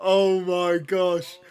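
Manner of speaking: long, slow, loud oh my gosh; ecstatic. Real, not acted. Streamer celebrating a goal, ecstatic and drawn out. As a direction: stretch it out in disbelief.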